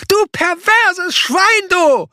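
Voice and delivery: very high, loud, furious dwarf yell; bellowing dwarf. A narrator's reading. Dwarf yelling at Sebastian in high furious rage. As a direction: scream the insult at him. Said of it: "brüllte der Zwerg".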